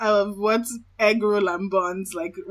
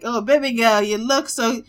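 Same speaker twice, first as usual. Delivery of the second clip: put-on Igbo-flavoured Nigerian accent, louder on the close; 7 dB louder, faster than usual. Friend imitating a Nollywood pickup line, in a Nigerian accent. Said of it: "Why you gotta say it in that accent".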